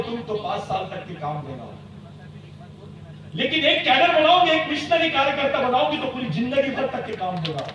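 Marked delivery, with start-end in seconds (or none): 3.3-7.6 booming rousing general speech. Real, not acted. Rousing rally speech, raised voice.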